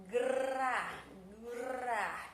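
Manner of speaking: gra, gra with G and R both sounded; sounding out. Shown as a demonstration. Teacher to pupils, sounding out gra. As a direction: sound every consonant in gra. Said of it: "Ó".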